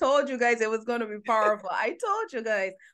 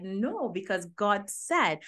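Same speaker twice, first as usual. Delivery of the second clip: quoting her; much slower than usual. Retold or imitated. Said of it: "But you said".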